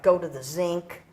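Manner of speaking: imitated German accent on "zinc". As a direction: quote Mama with a mild German accent. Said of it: "had this real German accent".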